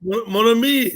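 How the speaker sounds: playful attempt at a French accent; put-on French lilt. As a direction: try it in French. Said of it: "to do a French accent".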